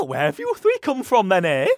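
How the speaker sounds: put-on old woman voice.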